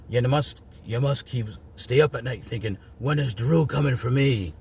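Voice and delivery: lightly imitated Scottish accent, taunting; Drew McIntyre accent. Quoting Drew taunting Solo, in a light Scottish accent. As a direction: lean into a mock Scottish brogue as Drew. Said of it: "That's my Drew McIntyre accent".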